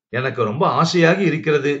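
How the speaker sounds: usual speaking voice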